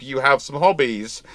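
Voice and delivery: ordinary delivery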